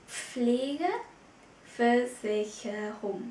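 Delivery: Pflegeversicherung drawn out very slowly, each syllable separate. Shown as a demonstration. Teacher slowly models Pflegeversicherung for Vietnamese students, very slow. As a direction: spell Pflegeversicherung out slowly for learners.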